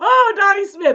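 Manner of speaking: play-acted, very high, very loud starstruck giddy gush. Retelling learning someone shares a favorite, imitating own giddy schoolgirl gush. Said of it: "I just went off like this giddy little schoolgirl".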